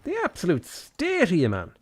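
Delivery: mock shriek. Mocking the ugly face.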